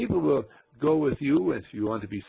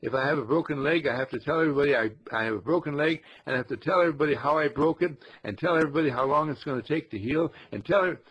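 eager, breathless bragging, lightly done; mock pride; 3 dB louder, faster than usual. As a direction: voice of pride, rushing to tell everybody. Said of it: "that old pride that says".

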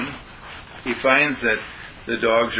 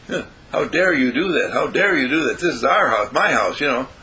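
mildly indignant challenge; indignant dog; 2 semitones higher than usual. Acted. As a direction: protest like an affronted house dog. Offended dog confronts the trainer.

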